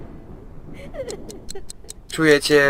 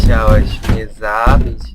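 drawn-out, louder reproach; slow mock accusation; 7 dB louder, much slower than usual. Real, not acted. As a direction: spell it out slowly to the monster. Addressing monster, slow and loud. (powoli, głośniej, z udawanym wyrzutem)

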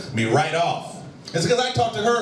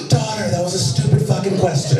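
mock shock; 4 dB louder than usual. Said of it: "And I was like".

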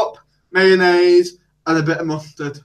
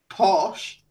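mock posh accent; 4 dB quieter than usual. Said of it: "you want me to talk posh".

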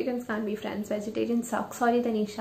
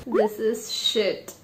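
disgusted verdict; much slower than usual. Shown as a demonstration. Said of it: "That is what I say to myself".

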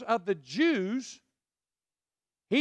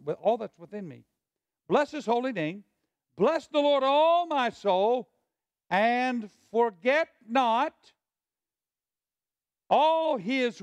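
fervent David; 3 semitones higher, slower than usual. Retold or imitated. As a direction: pour the whole soul into it. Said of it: "He's going".

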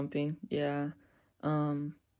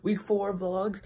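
out of breath from the stairs; slow, winded out-of-breath greeting; 2 semitones higher, slower than usual. Real, not acted. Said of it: "I'm out of breath 'cause I just ran up the stairs".

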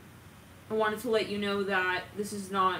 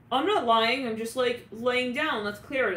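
mock excuse; 4 semitones higher, 5 dB louder than usual. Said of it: "It's like".

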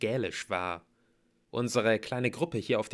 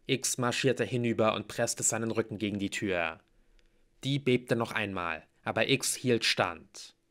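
plain reading voice

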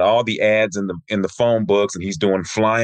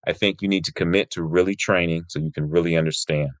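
gently voiced advice, lower pitched; said nicely; 4 semitones lower, 3 dB quieter than usual. Sensei advising a young student after his made-up kata, said nicely. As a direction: quote a kind teacher's measured, low-key advice. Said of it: "he said it so nicely".

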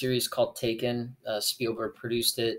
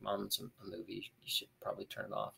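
sleepy mumble; 2 semitones lower, 15 dB quieter, faster than usual. Retold or imitated. Just woken by mom, dismissing news.

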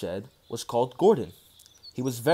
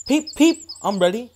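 high, loud whistle-like peeps; eager little engine; 9 semitones higher, 6 dB louder than usual. A narrator's reading. Little engine ready to push, high peeps. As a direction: chirp it brightly. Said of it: "said Edward".

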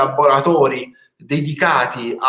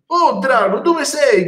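much higher gingerbread man calling; mild calling out; 11 semitones higher, 3 dB louder, slower than usual. Acted. Gingerbread man calling for the dragon, higher. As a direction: call out for the lost dragon. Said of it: "grida l'omino di Marzapane".

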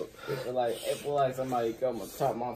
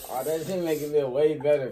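laughing relief; 5 semitones higher, 6 dB louder than usual. Real, not acted. Relief after drinking milk.

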